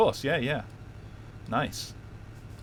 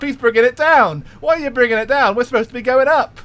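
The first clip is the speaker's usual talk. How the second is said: Cockney auctioneer; 4 semitones higher than usual. Pretend. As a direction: sell the bus seat like a market auctioneer, Cockney. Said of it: "When does the auction begin?".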